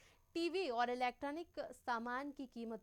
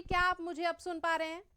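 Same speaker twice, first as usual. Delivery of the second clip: louder; 4 semitones higher, 6 dB louder than usual. Real, not acted. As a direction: speak up, louder and clearer. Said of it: "audio level बहुत कम है". (ज़ोर से, साफ़ आवाज़ में)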